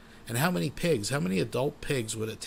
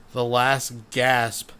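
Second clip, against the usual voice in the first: slow and loud, stretched out; slow-motion voice; 5 dB louder, much slower than usual. Pretend. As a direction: draw out "the last gasp" like a slowed replay. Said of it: "Let's go slower".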